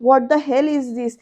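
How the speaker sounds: drawn-out English phrase, mildly angry; retold irritated outburst. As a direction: act out his exasperation, stretching the words. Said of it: "पृथ्वी एकदम चिडून विचारतो".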